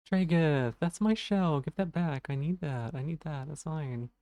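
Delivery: high little snail voice; squeaky-pitched plea, mine!; snail character voice. Pretend. Snail toy voice in play.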